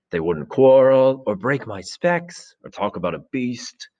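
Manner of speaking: loud, slow insistence; heated insistence. Acted. Piggy insisting to the boys, loud and slow. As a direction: hammer home each point.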